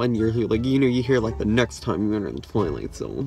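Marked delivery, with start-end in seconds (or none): 1.4-3.3 lightly voiced creepy announcer, lower and slow; a hint of a spooky ride announcer. Ride video narrator heard through the elevator wall, lightly creepy. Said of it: "like, the creepy voice".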